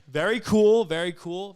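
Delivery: laughing mock praise. Real, not acted. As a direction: tease him while still laughing. Mocking a lame joke, laughing.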